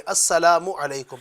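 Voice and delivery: slow clear "السلام علیکم" with the full assalamu; correct greeting. Shown as a demonstration. Teacher to viewers, slow model greeting. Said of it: "لیکن صحیح بولیں".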